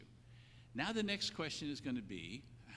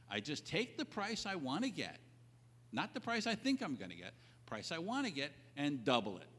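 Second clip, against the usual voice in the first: raised, higher mock client boasting; lightly voiced client bragging to a colleague; 4 semitones higher than usual. Client boasting to the next guy's office, mock higher voice. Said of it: "I don't talk like that".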